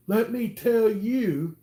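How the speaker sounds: slow, drawn-out high mock threat; menacing threat. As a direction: lean in and menace him slowly. Threatening guy held against wall.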